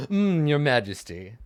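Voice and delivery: mock-courtly flourish; theatrical deference. Swordsman bowing to the king he just beat, theatrical deference. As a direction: lay on a little showy reverence. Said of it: "like, a big theatric bow".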